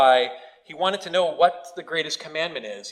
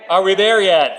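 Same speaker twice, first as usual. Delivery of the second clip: put-on whiny kid; 5 semitones higher, 9 dB louder than usual. Kids whining in back seat.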